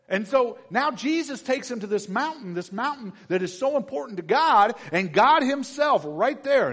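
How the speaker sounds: loud, ringing pulpit preaching; preaching at full force. Acted. Preacher to the church, preaching at full force. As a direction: drive it home to the congregation.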